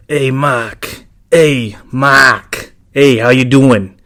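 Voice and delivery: lightly voiced raspy Eddie with his accent, a bit slow; Eddie impression. Host imitating his friend Eddie greeting him, light raspy impression. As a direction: greet Mark like a friendly customizer, drawn out a little. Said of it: "my impression of Eddie".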